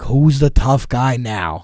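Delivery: slow, drawn-out mocking taunt. Jumping at the car, taunting the guys: slow sneer. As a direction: savour each word as a dare. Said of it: "I'm like".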